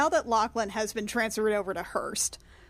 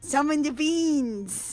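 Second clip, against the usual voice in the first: playful mock; 6 semitones higher, 3 dB louder, slower than usual. Player jokes on misspoken spell.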